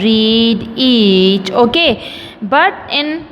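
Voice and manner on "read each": "Read, each" with the same long ee held in both; matching vowel demonstration. Shown as a demonstration. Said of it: "vowel E has the same sound".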